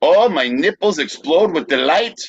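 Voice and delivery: high, swooping cry of delight; mock exclamation. Hungarian exclaiming while carted off by police, mock exclamation. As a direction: exclaim it with hammed-up rapture.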